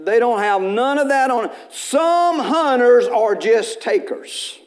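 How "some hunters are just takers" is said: slow emphatic. Shown as a demonstration. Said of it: "repeated punchline".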